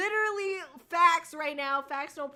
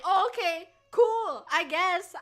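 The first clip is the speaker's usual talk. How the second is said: mock disappointed okay; 5 semitones higher, 8 dB louder, slower than usual. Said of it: "And it's like".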